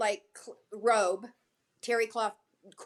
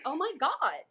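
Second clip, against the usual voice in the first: a mildly acted delighted gush, fantastic pitched much higher; thrilled gush; 8 semitones higher than usual. Star thrilled by the answer.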